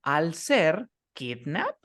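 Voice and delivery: put-on kidnap drawn out slowly, KID stressed; slow stress demo. Shown as a demonstration. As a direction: spell out kidnap very slowly for a student. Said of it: "la primera sílaba tiene el estrés".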